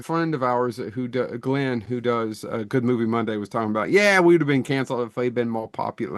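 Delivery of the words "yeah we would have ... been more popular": hammed-up, poor Australian accent; bad Australian accent. Podcaster quoting an Australian friend on being cancelled, bad Australian accent. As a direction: attempt Australian and miss badly. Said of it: "That's the worst Australian accent".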